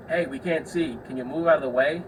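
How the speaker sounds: imitating a pointedly polite complainer; passive-aggressive request. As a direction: ask with a touch of irritation. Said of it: "Passive aggressiveness".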